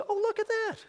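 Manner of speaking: the enemy cooing temptation; mock enticing enemy. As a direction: coo it like a lure. Enemy voiced luring a man.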